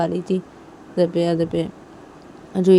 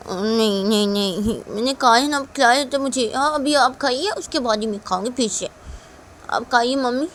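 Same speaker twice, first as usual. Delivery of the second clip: put-on higher-pitched child refusing to eat; stubborn little daughter; 5 semitones higher, 3 dB louder than usual. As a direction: coax mother like an insistent child. खाने से मना करती बच्ची. (ज़िद करती छोटी बच्ची की आवाज़)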